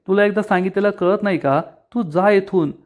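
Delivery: mildly heated, fed-up dismissal; understated anger, pushing her to leave; angry. Acted. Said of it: "Shilpa चिडून म्हणते".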